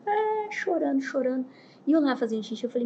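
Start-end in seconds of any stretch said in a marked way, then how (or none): 0.1-1.5 high-pitched mock wail; hammed-up weepy whine; mock crying. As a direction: imitate a woman bawling, pitched way up. Imitates the woman crying.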